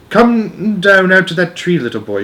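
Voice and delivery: a lightly voiced witch luring the boy, rasping. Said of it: "Her voice had a curious rasping quality".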